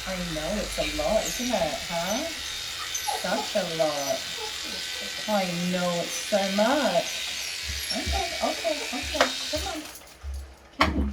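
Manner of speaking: hushed comforting coo to a nervous puppy; soothing pet talk. Real, not acted. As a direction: coo gently to a scared dog. Soothing anxious dog.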